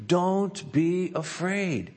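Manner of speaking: slowed, tender promise; gentle reassurance. Acted. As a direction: comfort a frightened listener. Pastor reading God's comfort aloud.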